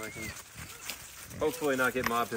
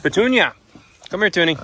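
calling out; 6 semitones higher, 8 dB louder, faster than usual. Real, not acted. Calling pig over.

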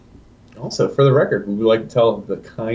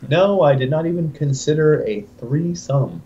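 press conference statement; 5 semitones higher than usual. Retold or imitated. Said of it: "This is your press conference the next day".

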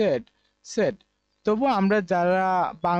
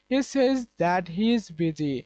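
very slow, word by word; slow example sentence; much slower than usual. Shown as a demonstration. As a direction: read it out slowly for the class. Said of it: "উদাহরণ দেখি". (ধীরে ধীরে উদাহরণ বাক্য পড়া)

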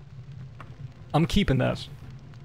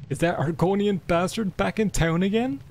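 reading a jealous husband; 6 semitones higher than usual. Acted. Gamer reading a joke book aloud, indignant. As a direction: read it as a scandalised husband. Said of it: "replied Harloth".

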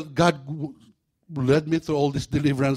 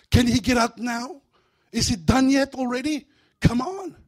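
high, whiny demon asking to leave; a pleading little demon, much higher; impatient demon; 9 semitones higher, 4 dB louder than usual. Acted. Preacher voicing a restless demon, high and whiny.

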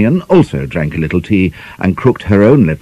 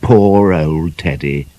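gloating; slower than usual. Acted. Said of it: "gloated Kwanyan".

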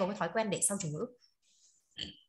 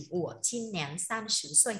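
slow model repeat, syllable by syllable; slow teacher model; slower than usual. Shown as a demonstration. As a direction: repeat it slowly for learners to copy. (đọc mẫu chậm rãi cho học viên nhắc theo)

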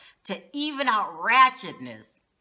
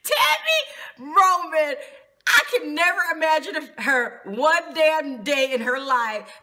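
laughing; 4 semitones higher, 4 dB louder than usual. Real, not acted. Laughing at the idea.

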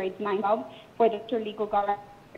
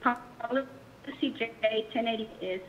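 choppy phone line. Real, not acted. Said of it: "choppy again".

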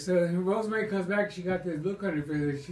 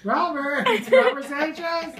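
calling out; 9 semitones higher, 6 dB louder, slower than usual. Retold or imitated. Schoolmates calling out his name.

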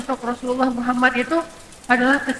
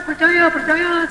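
crowd affirming; 6 semitones higher, 3 dB louder, much slower than usual. Acted.

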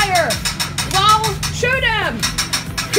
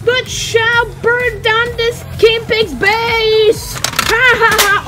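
villain voice; 4 semitones higher, slower than usual. Pretend. Toy villain boasting, evil laugh.

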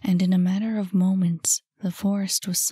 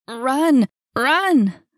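loud, higher urgent yell; screamed warning; 5 semitones higher, 6 dB louder than usual. A narrator's reading. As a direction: yell it to send them fleeing. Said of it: "She heard him scream".

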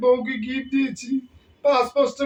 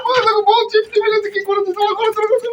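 put-on childish wailing; 9 semitones higher, 4 dB louder than usual. Son wailing to mother about pinch.

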